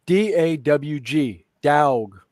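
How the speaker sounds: slow Southern drawl, DOG drawn out. Retold or imitated. Speaker recalls spelling dog for a cousin, Southern drawl. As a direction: spell it out slowly in a Southern accent, stretching "dog". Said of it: "stretch it into, like, a five syllable word".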